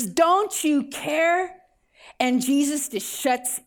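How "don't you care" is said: higher, very drawn-out mock yell without much volume; mild retold yell. Frightened disciples to Jesus, mild retold yell. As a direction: stretch it into an imitated plea. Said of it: "yelling at Jesus".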